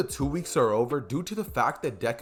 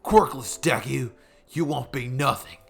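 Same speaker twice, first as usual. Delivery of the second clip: put-on slow, louder sneer of a bratty kid; Bakugo impression; 5 dB louder than usual. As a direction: taunt him like a mean little Bakugo. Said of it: "impression of Bakugo".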